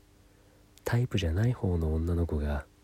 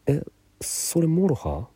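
much higher and louder, caught off guard; surprised gasp; 10 semitones higher, 6 dB louder than usual. Retold or imitated. Recognizing the song she plays on guitar, a delighted surprised yelp. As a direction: blurt it out in sudden delighted surprise.

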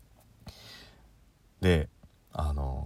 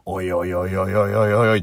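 exasperated; 5 dB louder than usual. Retold or imitated. Exasperated inner reaction.

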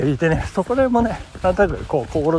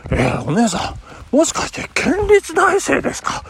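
eagerly checking a hunch; excited question; 9 semitones higher than usual. Retold or imitated. Asks the waitress if she's a prefectural university student, excitedly. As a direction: voice jumps up on the guess.

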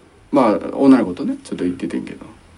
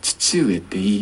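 small voice; 4 semitones lower, 5 dB quieter, slower than usual. Retold or imitated. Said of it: "ちっちゃい声で".

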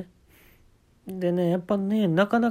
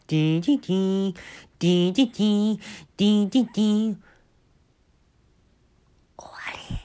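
mouth noise song; 3 semitones higher than usual. Retold or imitated. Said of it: "二曲目です".

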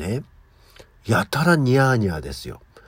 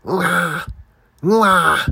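higher, drawn-out yowl, louder at the end; thick-voiced cat yowl; 8 semitones higher, 6 dB louder, much slower than usual. Host imitating her old cat's thick yowl at 2am, drawn-out wail. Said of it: "のぶといの".

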